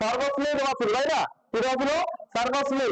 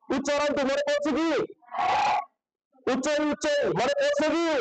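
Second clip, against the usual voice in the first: raised voice pressing the class for an answer; calling out. Real, not acted. Teacher calling out to a silent class, raised voice. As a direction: push the students to remember.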